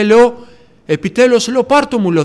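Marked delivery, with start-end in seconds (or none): 0.9-1.5 higher, pleading, on the edge of tears; reliving a desperate plea to God; retold tearful plea. Praying to the Lord in despair, tearful and raised. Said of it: "να κλαίω". 1.6-2.0 high, urgent, pleading; begging God to take it away; retold tearful plea. Pleading with the Lord to take the sin, high and tearful. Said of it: "να κλαίω".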